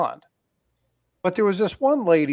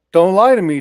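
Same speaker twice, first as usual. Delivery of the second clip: stern grandpa demand; 5 semitones higher, 11 dB louder than usual. Retold or imitated.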